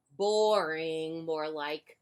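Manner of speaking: grumpy. Acted. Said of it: "grumped Duck".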